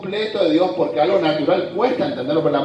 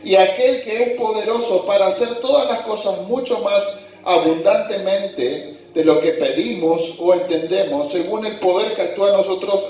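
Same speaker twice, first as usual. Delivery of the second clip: measured, deliberate Bible reading to the congregation; scripture reading. Acted. Pastor reading Ephesians to his congregation, scripture reading voice. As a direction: read the verses out as holy text. Reads doxology aloud.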